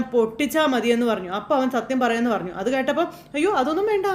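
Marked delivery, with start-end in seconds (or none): 3.3-4.1 alarmed protest. Retold or imitated. Revathi alarmed at beating plan.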